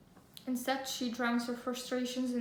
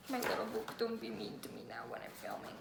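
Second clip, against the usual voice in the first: much lower, soft, teasing the book; mock scolding the book; 4 semitones lower, 7 dB quieter than usual. Telling her little book off, lightly mock-stern.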